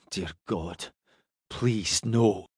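soft, pleading under the breath; hushed desperate prayer. A narrator's reading. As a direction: whisper a frightened plea. Pike's silent dread prayer.

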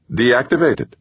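sudden high surprised blurt; jolted, disbelieving question; blurted in surprise. A narrator's reading. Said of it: "Gaeta blurted".

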